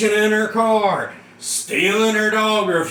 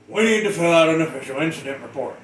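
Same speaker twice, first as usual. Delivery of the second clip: brisk supervisor; 3 semitones lower, faster than usual. Retold or imitated. Supervisor voiced, quick.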